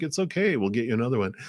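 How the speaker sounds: a hint of a kind grandfather calming the child; reassuring grandfather. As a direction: grandfather comforting the crying grandchild, lightly voiced. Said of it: "And they're like".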